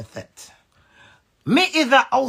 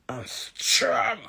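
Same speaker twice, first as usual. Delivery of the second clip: tearful whisper; 6 dB quieter than usual. Real, not acted. Tearful moment in a rant.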